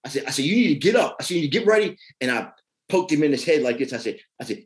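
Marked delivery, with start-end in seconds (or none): 0.4-1.2 loud, high, angry scolding; aggressive retold. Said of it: "I was very, like, aggressive". 1.3-2.0 loud, high, angry scolding; aggressive retold. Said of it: "I was very, like, aggressive".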